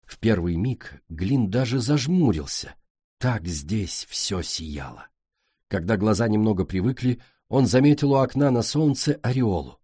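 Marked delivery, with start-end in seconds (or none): 3.2-5.1 slow, low and hushed; hushed awe. A narrator's reading. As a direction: breathe it out in wonder. Awe at golden hall.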